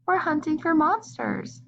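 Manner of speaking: a hint of a squeaky mouse; squeaked. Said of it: "squeaked Mouse".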